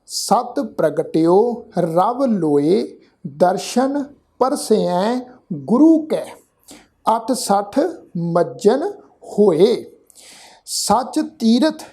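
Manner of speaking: slow, measured Gurbani recitation; scripture recitation. Shown as a demonstration. Teacher recites scripture for the congregation to follow, slow and measured. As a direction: draw out each word, pausing between phrases.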